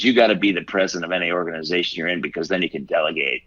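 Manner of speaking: fast, brisk imitation of his mom; mom's advice. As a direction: rattle it off like a no-nonsense mother. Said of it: "She goes".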